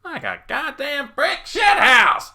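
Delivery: high, loud exclamation; drawn-out, high-pitched cursing yell; attacker's shout. Acted. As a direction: shout it slowly in rough triumph over a victim. Attacker yells over fallen victim.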